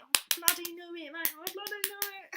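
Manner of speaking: high, hammed-up Aussie; Australian accent. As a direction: exclaim it in a playful Australian accent. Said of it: "there was an Australian saying".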